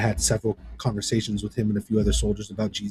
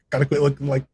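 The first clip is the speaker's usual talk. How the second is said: higher, louder, talking yourself into toughness; forced pep talk; 5 semitones higher, 4 dB louder than usual. Retold or imitated. Recruit to his bunkmate, forced upbeat pep talk. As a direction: buck up a crying buddy, half laughing. Recruits pepping each other up.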